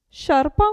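Sciarpa begun with sh, sharpa; sci as sh. Shown as a demonstration. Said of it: "si pronuncia sci". (Sciarpa con sci come sh)

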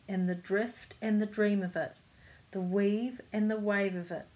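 measured picture-book reading; story narration. A narrator's reading. Reader telling children of the kite flight, story narration. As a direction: read the tale aloud to children.

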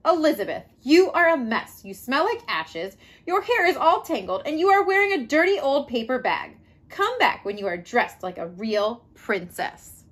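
lightly voiced disdainful prince; snooty prince. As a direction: look down your nose at her. Snobbish prince scolds Elizabeth.

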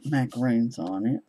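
talking through hiccups. Real, not acted. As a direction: speak with hiccups breaking in. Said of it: "Sorry, I got the hiccups".

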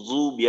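জুবি with z where d belongs; z-like dad. Shown as a demonstration. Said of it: "জর মতো বোঝা যায়". (জুবি-তে দদ জয়ের মতো)

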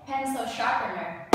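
Pencil sharpener with first syllables stressed. Shown as a demonstration. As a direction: model "Pencil sharpener", leaning on each word's first syllable. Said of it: "You start at the first one".

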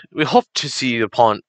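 "we hoped to see the pond" in a mild British voice, near normal pitch; British accent. Pretend. Gamer finishing the British line, mild British accent. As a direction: settle the British voice back down on "we hoped". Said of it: "I can't do British".

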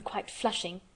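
ordinary delivery, nothing marked

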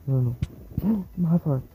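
alarmed. Real, not acted. Nearly dies in fight.

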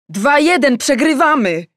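high, loud shout at the TV. Acted. Daughter shouting at the football match on TV. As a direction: yell it, glued to the match. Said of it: "krzyknęło moje maleństwo".

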